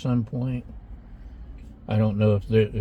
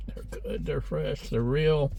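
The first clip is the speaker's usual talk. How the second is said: talking through a mouthful; words round a bite of food; mouth full; 4 semitones higher, 5 dB quieter than usual. Real, not acted. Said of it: "didn't want to talk with my mouth full".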